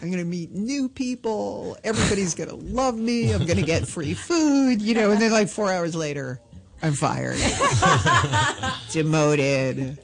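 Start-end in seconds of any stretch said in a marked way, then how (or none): 0.0-4.8 excited. Retold or imitated. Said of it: "'cause you're all excited".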